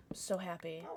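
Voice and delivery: breathy whispered joy; happy whisper. Real, not acted. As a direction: whisper it, overcome. Quietly overjoyed.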